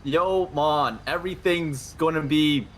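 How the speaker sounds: put-on Jamaican accent. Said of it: "you better do it in a Jamaican accent".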